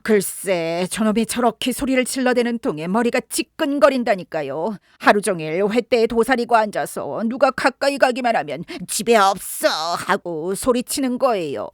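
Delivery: a lightly voiced old woman complaining about the parrot; annoyed old housekeeper. (시끄러운 앵무새를 투덜대며 불평하는 늙은 여자 목소리)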